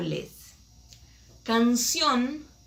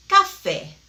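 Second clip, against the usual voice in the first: café, punched high and loud on the final é; ca-FÉ, last syllable louder and higher; stress on final syllable; 8 semitones higher, 8 dB louder than usual. Shown as a demonstration. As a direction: land hard on the FÉ of café. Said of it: "Café está acentuado en E".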